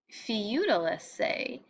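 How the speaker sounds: feudalise, said slowly, syllable by syllable; slow French word. Shown as a demonstration. Teacher sounding out a French word, slowly. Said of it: "The term comes from the French word".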